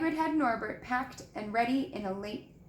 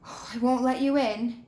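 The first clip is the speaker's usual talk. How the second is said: breathless big-man voice; a lightly puffed Hagrid line; puffing Hagrid; 5 dB louder than usual. A narrator's reading. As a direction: puff it out like a winded giant. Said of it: "he puffed".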